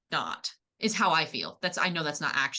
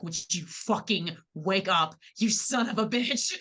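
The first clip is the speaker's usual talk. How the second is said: mock exasperated yell; 2 semitones higher, slower than usual. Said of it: "she's talking about her nine husband".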